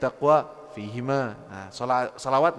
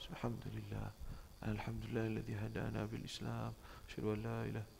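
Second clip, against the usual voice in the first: much softer, almost whispered sermon lines; talking to himself; 6 semitones lower, 20 dB quieter than usual. Shown as a demonstration. Khatib whispering his sermon so nobody hears. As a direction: murmur it to yourself, not to the crowd. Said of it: "Ngomong sendiri, bisik-bisik".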